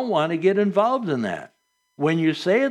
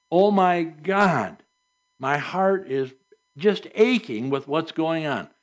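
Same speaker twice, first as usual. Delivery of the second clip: drawn-out "Oh my God", then pauses through the lament; heartfelt prayer. Shown as a demonstration. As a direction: pour out an aching heart to God. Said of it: "when you're addressing God himself".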